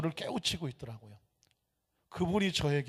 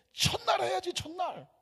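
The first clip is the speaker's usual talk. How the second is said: much higher, insistent on 첫날; emphatic urging; 14 semitones higher than usual. Retold or imitated. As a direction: push 첫날 up high and urgent. Preacher's excited retort retold. (교구장에게 흥분해서 첫날을 강조)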